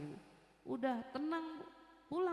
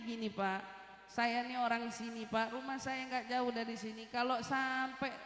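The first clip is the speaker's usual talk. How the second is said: lower, measured reassurance; placating; 3 semitones lower than usual. Retold or imitated. Driver offering her parents' address to angry man, placating. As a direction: reason with him in a lowered pitch. Retelling how she calmed the man.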